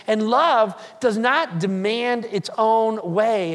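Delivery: slow, emphatic "love does not demand its own way"; "love does not demand" drawn out with mounting insistence; ratcheted up a level. Retold or imitated. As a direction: lean slowly on each word of "does not demand its own way". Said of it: "he ratchets it up another level".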